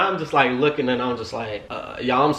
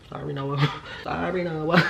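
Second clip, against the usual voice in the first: laughing; 4 semitones higher, 6 dB quieter than usual. Real, not acted. Laughing apology to Noah.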